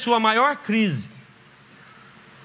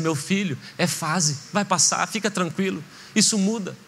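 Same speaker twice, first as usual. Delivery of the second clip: God's gentle comfort; 3 semitones lower, 4 dB quieter than usual. Acted. God comforting the weary believer.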